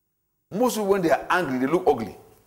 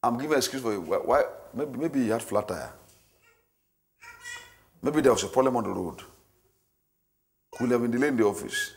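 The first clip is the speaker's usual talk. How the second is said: soft, lower inner voice making excuses; calm self-talk; 6 semitones lower, 6 dB quieter than usual. Acted. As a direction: talk yourself down gently. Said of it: "Self-talk says".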